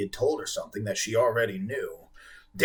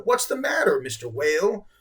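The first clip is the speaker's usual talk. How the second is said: concerned; 8 semitones higher, 4 dB louder than usual. Acted. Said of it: "in his softest, most concerned-sounding voice".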